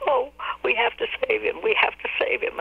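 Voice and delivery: high, pleading mock sob; imitating a tearful plea. Friend pleading on the phone, high tearful mock plea. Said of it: "my friend called me just sobbing".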